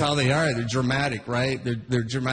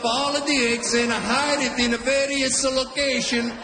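put-on a lightly higher Italian-accent tale; Italian dad storytelling; 3 semitones higher than usual. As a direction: explain it like a proud father. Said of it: "He's like".

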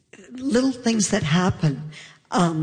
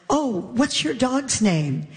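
sweet neighbor voice; 6 semitones higher, slower than usual. Retold or imitated.

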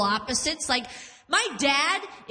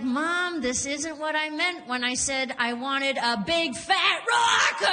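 mock complaint; 2 semitones higher than usual. Daughter to mom over healing crystals, mock exasperated complaint. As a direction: build to a half-serious outburst.

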